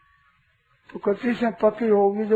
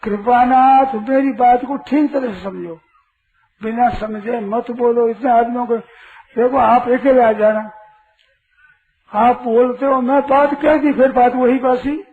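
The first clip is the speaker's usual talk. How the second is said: louder, firm scolding of the questioner; stern rebuke; 2 semitones higher, 6 dB louder than usual. Real, not acted. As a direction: tell him off sharply to stop interrupting. Scolding a listener who interrupts. (सभा में टोकने वाले को ज़ोर से डाँटना)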